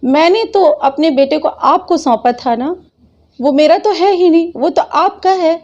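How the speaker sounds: a mild retold sob-plea, voice lifting; retold tearful plea. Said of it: "रो रो कर बोला".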